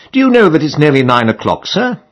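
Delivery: a hint of a fussy landlady calling through the keyhole.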